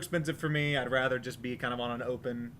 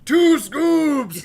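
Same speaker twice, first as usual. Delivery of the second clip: high, loud gleeful shout; joking shout; 13 semitones higher, 13 dB louder than usual. Pretend. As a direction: blurt it out as a silly punchline. Joking about a cone.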